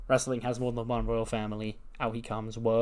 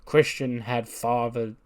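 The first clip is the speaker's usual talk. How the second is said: Cody promo impression. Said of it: "And he goes".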